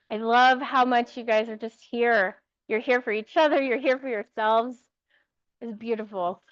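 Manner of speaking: talking around ice in mouth; mouth full. Real, not acted. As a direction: speak with ice in your mouth. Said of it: "I have ice in my mouth right now".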